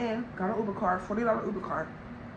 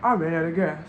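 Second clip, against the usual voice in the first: lower, sheepish admission; low driver voice; 6 semitones lower than usual. Retold or imitated. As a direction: mumble it like the guilty driver.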